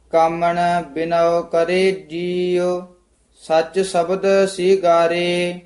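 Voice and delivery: scripture recitation. Shown as a demonstration. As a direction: recite steadily, holding the line endings. (ਠਹਿਰਾਅ ਵਾਲਾ ਗੁਰਬਾਣੀ ਪਾਠ)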